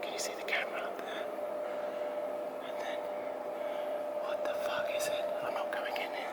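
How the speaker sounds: hushed whisper, afraid of being heard. Real, not acted. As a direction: whisper so no one hears. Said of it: "I have to be really quiet".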